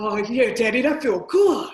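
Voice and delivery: put-on big, buff Brooklyn tough-guy accent. Describing how you sound during sex, in a big buff Brooklyn dude voice. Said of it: "sounds like a big buff black dude from Brooklyn with a".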